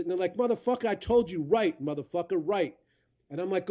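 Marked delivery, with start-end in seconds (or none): 0.4-2.8 arguing local. Retold or imitated. Locals arguing over directions.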